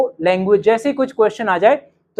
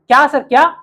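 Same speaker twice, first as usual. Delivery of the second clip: rude what; 4 semitones higher than usual. Shown as a demonstration. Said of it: "अब देखो भद्दा तरीका".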